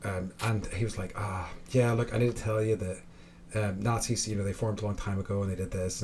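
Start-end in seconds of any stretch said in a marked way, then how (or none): none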